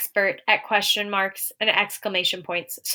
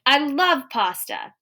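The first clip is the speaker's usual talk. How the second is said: higher, slow, excited exclamation; 5 semitones higher, slower than usual. Shown as a demonstration. Teacher showing students an excited statement, excited. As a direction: gush it, drawing out the words. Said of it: "but they're excited about pasta".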